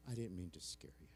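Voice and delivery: soft unvoiced whisper. Real, not acted. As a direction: whisper it close to the mic. Hushed aside to crowd.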